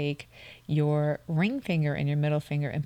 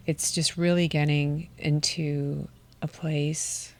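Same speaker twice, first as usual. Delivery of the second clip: guided relaxation. Acted. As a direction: ease them into calm, unhurried. Slow soft setup before breathing.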